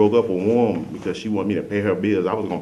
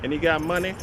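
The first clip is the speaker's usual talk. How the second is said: much higher, slow, dreamy mock girlfriend; mimicking ex-girlfriends; 10 semitones higher than usual. Mocking his exes swooning over his car, higher and slow. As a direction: coo it like an impressed ex. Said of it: "they be like".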